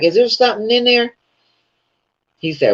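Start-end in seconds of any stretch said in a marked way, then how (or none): 0.0-1.1 retold curious question. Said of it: "But I was like".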